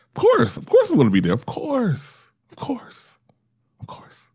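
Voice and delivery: insistent 'of course', fading to a whisper; eager reassurance. Retold or imitated. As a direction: start high and emphatic, dwindle to almost nothing. Replays always agreeing to help.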